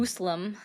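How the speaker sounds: "Muslim" echoed as MOOSE-lum; mimicked mispronunciation. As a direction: repeat "Muslim" with a long oo and an s. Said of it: "That was actually kinda funny".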